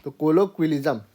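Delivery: कोलोक्विलिज्म said with a clear kwil in the middle; teacher models कोलोक्विलिज्म with kwi stressed; model pronunciation. Shown as a demonstration. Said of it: "इसको ना क्विल बोलते हैं".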